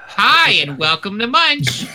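upbeat host opener; show host intro. Shown as a demonstration. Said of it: "Take three".

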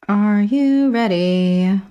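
acted question. Character asks, slowed and raised.

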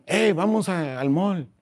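a little girl playing dolls, upbeat; a hint of a chirpy doll inviting friends; girl voicing her Barbie. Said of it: "la niña dice a las amigas".

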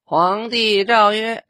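high, slow drawn-out edict cry; mock the TV eunuch reading the edict; TV drama eunuch voice. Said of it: "这不对 第一，这声音不对".

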